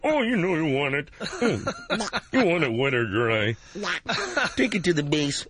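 muttering old cartoon man; Mister Magoo. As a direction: mumble like a doddering cartoon codger. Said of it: "do Mister Magoo".

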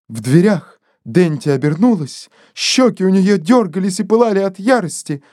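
ordinary delivery, nothing marked

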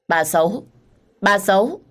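lightly voiced small child protesting; a small child scolding her grandmother; crying toddler. A narrator's reading. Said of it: "bắt đầu khóc toáng lên".

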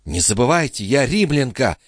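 mild hiss. A narrator's reading. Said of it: "прошипела Лоренцо".

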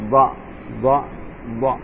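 ضاء voiced from the side of the tongue, repeated; dad from the side. Shown as a demonstration. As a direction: push ضاء off the tongue's edge. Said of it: "من الجانبين". (الضاد من حافة اللسان)

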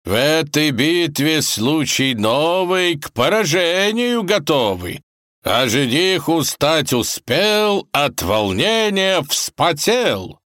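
hammy kaiser reciting rhymes; declaiming verse. Acted. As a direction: recite like a proud poet.

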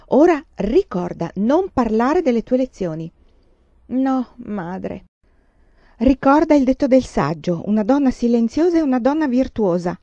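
mother warning daughter before tea, stern. Acted. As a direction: drill the rule into her.

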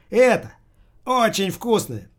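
put-on high-pitched old woman pushing her wares; бодрая старуха-уборщица. A narrator's reading. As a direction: sing its praises, high and drawn out. Cleaner pitches detergent as drink. (бодрая старуха нахваливает, высоко и протяжно)

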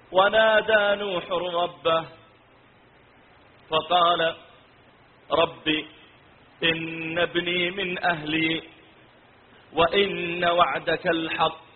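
slow melodic tilawa; Quran recitation. Acted. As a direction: recite slowly, drawing out the long vowels. (تلاوة قرآنية مرتلة)

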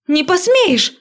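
high, loud shriek; squealed. A narrator's reading. Girl shrieking as he comes at her, high and loud. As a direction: squeal it in panic. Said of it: "взвизгнула я".

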